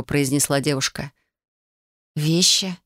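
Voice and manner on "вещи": dull puzzled echo. Acted. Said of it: "тупо переспросила я".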